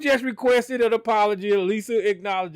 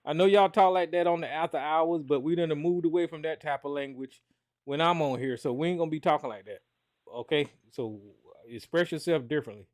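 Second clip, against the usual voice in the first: calm hushed correction; 5 semitones lower, 7 dB quieter than usual. Real, not acted. Host calms heated callers.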